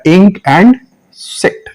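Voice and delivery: ink, sit with a short "ih". Shown as a demonstration. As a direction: keep the vowel brief in ink and sit. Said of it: "तो वो short हो जाएगा". (छोटी इ)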